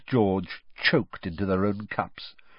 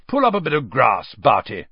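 higher, louder cheery invitation; bright; 3 semitones higher, 6 dB louder than usual. A narrator's reading. Bagman inviting Crouch to sit on the grass, brightly. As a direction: invite him brightly, voice lifted. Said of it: "said Ludo brightly".

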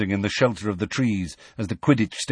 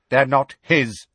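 higher contemptuous interruption; 4 semitones higher, 4 dB louder than usual. A narrator's reading. Bane correcting Magorian about the young, contemptuous. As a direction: cut in with contempt. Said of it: "interrupted Bane contemptuously".

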